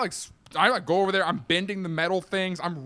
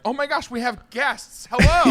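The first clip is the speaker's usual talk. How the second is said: high, bright mock welcome, rising to loud; gushing over a delivery like guests; mock excited greeting; 8 semitones higher, 5 dB louder than usual. Customer gushing at the door, mock excited.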